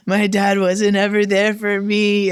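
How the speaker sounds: half-wail it like a hurt kid, lightly played; retold crying. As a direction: replay a weepy complaint. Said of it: "And I'm crying".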